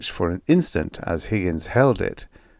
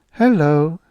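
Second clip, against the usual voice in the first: cheery robot hello; 8 semitones higher, 6 dB louder than usual. A narrator's reading. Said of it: "respond with a cheery".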